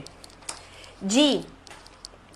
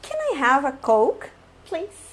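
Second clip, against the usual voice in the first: polite request; 2 semitones higher, slower than usual. Shown as a demonstration. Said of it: "meu teatro e a minha expressão".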